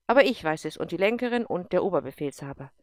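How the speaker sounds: loud, commanding officer voice; a tough general pressing a colonel hard; stern general. Acted. General challenges Erik, loud and commanding.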